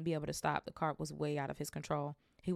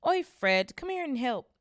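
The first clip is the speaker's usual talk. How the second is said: much louder, higher shout; calling out; 8 semitones higher, 9 dB louder, slower than usual. Acted. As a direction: call across the platform. Twin calling brother.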